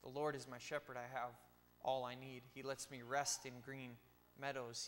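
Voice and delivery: steady, devotional psalm reading; scripture reading. Shown as a demonstration. Preacher reading Psalm 23 aloud to his congregation, devotional. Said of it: "right before Psalm twenty-three".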